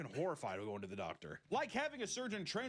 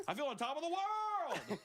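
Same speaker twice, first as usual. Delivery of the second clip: mock elated boast; 11 semitones higher than usual. Mocking the patient's boast, hammed-up high cheer. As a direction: crow about feeling amazing.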